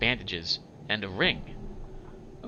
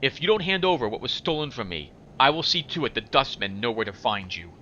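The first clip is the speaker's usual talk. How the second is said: lightly acted menacing warning; impatient threatening demand. Warning Farid to return what was stolen, impatient and threatening. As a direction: press the threat with measured firmness. Voices the game's characters.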